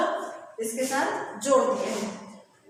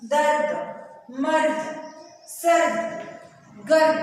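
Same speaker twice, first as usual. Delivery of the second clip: each word called out louder; loud model reading; 2 semitones higher, 4 dB louder, slower than usual. Shown as a demonstration. Teacher models word list. (कक्षा के लिए ज़ोर से शब्द पढ़ना)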